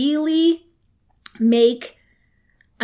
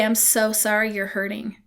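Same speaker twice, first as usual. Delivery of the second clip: gentle sympathy; 3 dB quieter than usual. Shown as a demonstration. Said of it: "You say".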